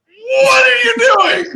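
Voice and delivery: high, loud cry of disbelief; startled shout. Retold or imitated. Retelling his alarm as Dave greets a stranger, shouted high. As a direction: yell it in shock at your friend. Shocked as friend approaches stranger.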